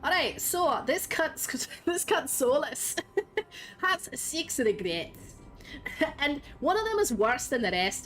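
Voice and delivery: put-on Scottish accent, casual storytelling. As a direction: retell the lore in a hammed-up Scottish accent. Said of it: "You want me to speak Scottish for a minute?".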